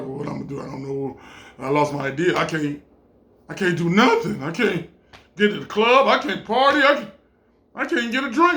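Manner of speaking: nervous mutter that climbs into panic; nervous, rising to panic. Retold or imitated. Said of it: "You know that nervous".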